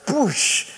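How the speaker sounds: mouthed whoosh of thrown water; imitated water splash. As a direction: make a splashing noise with the lips.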